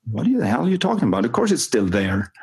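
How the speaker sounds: mock indignation, settling as it goes; incredulous retort. Player's baffled retort, acted by coach.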